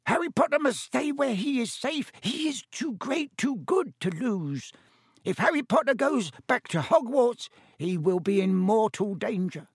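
very high, squeaky elf warning; frantic house-elf Dobby. Acted. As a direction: plead urgently in a high elf voice.

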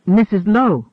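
surprised call of her name; exclaiming. A narrator's reading. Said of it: "the first exclaimed".

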